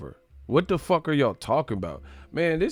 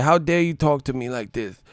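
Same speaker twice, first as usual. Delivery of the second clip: Tyson quote; 4 semitones higher than usual. Retold or imitated. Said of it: "he said".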